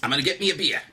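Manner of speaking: high, pushy puppet begging for a drink, then shouting; a pestered puppet yelling at the crowd; whiny puppet host. Acted. Puppet host to the audience, whiny then shouting.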